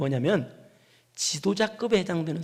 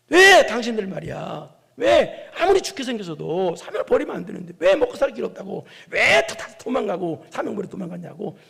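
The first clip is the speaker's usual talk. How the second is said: forceful acted telling-off, leaning on each accusing question; harsh rebuke; 5 dB louder than usual. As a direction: scold deserters of their duty. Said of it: "고되게 꾸짖어서". (고되게 꾸짖듯이)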